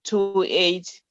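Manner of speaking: a number measured out in pairs; slow dictation. Real, not acted. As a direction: give the listener time to write it. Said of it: "I'll ask you to say it slowly".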